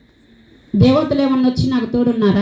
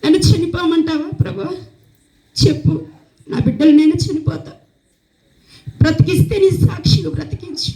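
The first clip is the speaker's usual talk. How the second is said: retold weeping plea to the Lord, a touch higher; pleading with God, lightly tearful, not full sobs; tearful prayer; 4 semitones higher than usual. Widow praying alone at night, mildly tearful plea. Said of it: "కన్నీరు విడిచి".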